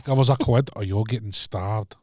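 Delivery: slow Glasgow accent impression; attempted Glasgow accent; Kevin Bridges. Shown as a demonstration. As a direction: do a Glaswegian comic, drawn out. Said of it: "um, Kevin Bridges".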